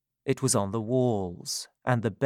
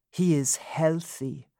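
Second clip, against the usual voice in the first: whispering; 5 semitones higher than usual. A narrator's reading. Bitter list, whispered.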